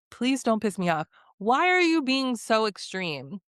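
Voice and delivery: exasperated telling-off, rising in pitch; mad. Real, not acted. Vlogger fed up with a contestant's complaint, exasperated. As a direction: scold with mounting exasperation. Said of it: "That makes me so mad".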